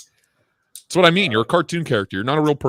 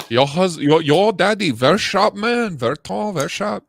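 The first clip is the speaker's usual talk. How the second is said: high, slow teasing praise; mock admiring voice; 7 semitones higher, slower than usual. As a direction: coo it like a fawning admirer. Mock praise of his daddy.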